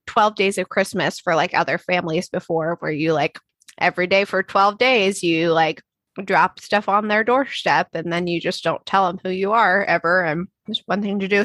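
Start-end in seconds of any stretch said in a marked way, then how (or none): 6.2-11.4 talking while eating chocolate; words round a bite of chocolate; mouth full. Real, not acted. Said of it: "Sorry, I'm eating chocolate".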